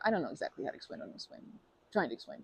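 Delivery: fast, soft muttered aside; rushed mumble. Real, not acted. Speaker fumbles an explanation to the river-watcher, fast mumble. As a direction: rattle it off under your breath.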